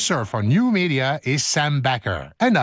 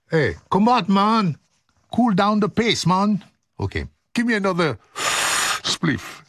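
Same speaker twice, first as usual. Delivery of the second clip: stoned guy voice; 5 semitones higher than usual. Pretend. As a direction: play a mellow stoned guy.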